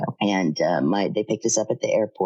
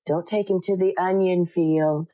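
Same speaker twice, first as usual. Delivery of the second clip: mock shout; 5 semitones higher than usual. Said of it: "my dad goes".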